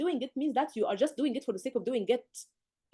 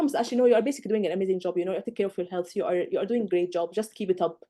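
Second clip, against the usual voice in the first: professional reassurance; 4 semitones lower than usual. Shown as a demonstration. Doctor reassures the patient calmly, the right way to answer. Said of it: "That's how you speak".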